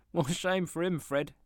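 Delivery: put-on high, loud indignant young wife. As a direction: scold with mock outrage. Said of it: "said Scrooge's niece indignantly".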